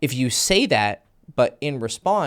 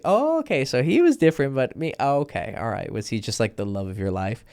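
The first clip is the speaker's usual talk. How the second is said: playful mock jealousy. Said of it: "with the right attitude".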